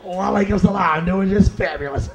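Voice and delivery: white American convert. Acted. Convert answers his buddy, square white American accent. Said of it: "New Caucasian convert".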